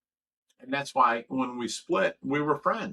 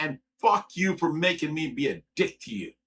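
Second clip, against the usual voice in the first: retold angry outburst, louder; mad; 3 semitones higher, 5 dB louder than usual. Man retelling a row with his housemate, mad. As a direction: push it out forcefully, as in a heated argument. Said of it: "I got fucking mad".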